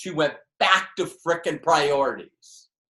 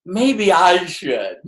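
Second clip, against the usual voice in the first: ordinary delivery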